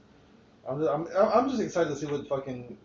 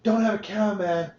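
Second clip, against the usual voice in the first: loud, raised-pitch taunting yell; mock yell; 6 semitones higher, 5 dB louder than usual. Host acting out a game character's pre-match trash talk, mock yell. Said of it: "Stewie yells out".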